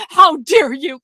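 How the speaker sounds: hammed-up offended cry; a light mock yell of outrage; mock indignant outburst. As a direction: play it up like someone clutching pearls. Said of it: "someone mocked".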